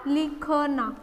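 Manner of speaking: लिखना said in parts as लि, ख, ना; sounded out. Shown as a demonstration. Teacher joining letters into a word, sounded out. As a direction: separate each syllable of लिखना, low and soft. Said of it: "तो ये क्या हो गया".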